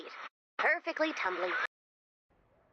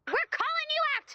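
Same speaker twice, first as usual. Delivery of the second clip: mock showdown call; 13 semitones higher than usual. Cowboy challenge to the outlaw.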